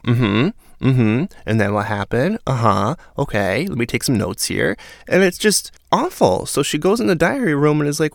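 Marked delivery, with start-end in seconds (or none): 0.0-4.8 sing-song, rising uh-huhs; feigned attentive listener. Retold or imitated. Listener humouring a man revealing his plans, mock attentive. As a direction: play along like an eager note-taker. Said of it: "she's just sitting there like".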